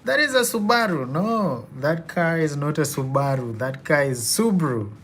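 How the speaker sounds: high, startled and laughing; confused protest. Retold or imitated. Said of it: "I'll be like".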